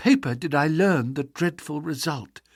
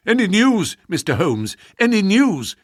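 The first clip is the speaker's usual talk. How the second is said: louder, higher, eager questions; cried out eagerly; 4 semitones higher, 5 dB louder than usual. Acted. Anxious secretary bursting in to ask Holmes for news, crying out eagerly. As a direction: burst in desperate for any news. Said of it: "he cried".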